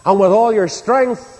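firm, insistent sermon delivery; emphatic preaching. Real, not acted. Preacher warns believers to love God with the mind, emphatic preaching. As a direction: drive it home from the pulpit.

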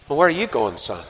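a hint of a Northern Irish accent. Israelites asking young David, mildly Northern Irish. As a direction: lightly voice a Northern Irish onlooker. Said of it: "That's the N I V, of course, the Northern Ireland version".

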